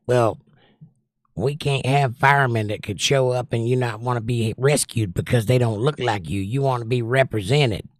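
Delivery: hint of a Southern accent, mocking. Streamer mocking a hiring argument in light Southern accent. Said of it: "I don't know why they have a Southern accent".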